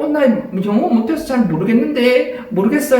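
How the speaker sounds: playing dumb. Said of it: "이렇게 바보처럼 이렇게 한 거예요".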